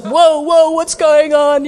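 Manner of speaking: high, loud bewildered whoa; startled grandpa. Retold or imitated. Father-in-law handed the child suddenly, startled. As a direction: sound caught off guard.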